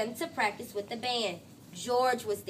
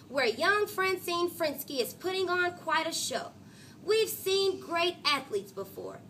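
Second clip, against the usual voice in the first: announcer voice. Acted. Sports announcer daydream voice.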